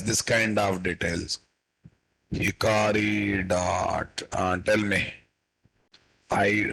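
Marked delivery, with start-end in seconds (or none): 2.3-4.2 dictating. Shown as a demonstration. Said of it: "teacher dictates code slowly".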